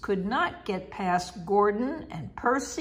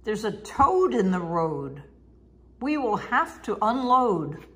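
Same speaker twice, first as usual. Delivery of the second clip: lightly raised calling out; called out. Acted. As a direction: call it out to the passengers. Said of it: "His driver called out".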